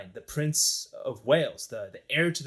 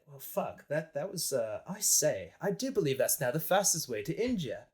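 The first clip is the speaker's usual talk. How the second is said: put-on posh British accent; 4 dB quieter than usual. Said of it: "'Cause they're like".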